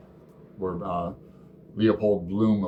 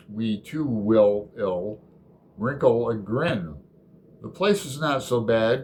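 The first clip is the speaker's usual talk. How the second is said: poem reading; 2 semitones higher than usual. Acted. Reading Dream Song two eighty-eight to the group, unhurried recital. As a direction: read it unhurried, savouring the rhymes.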